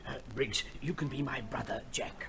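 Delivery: urgent unvoiced whisper to the butler. Colonel secretly briefing butler, whispered. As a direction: hiss it so the visitor won't hear.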